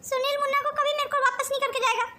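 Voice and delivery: worked-up maternal panic; distraught accusation. Acted. Mother fears her son is taken for good, distraught. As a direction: blame her, voice tight with distress.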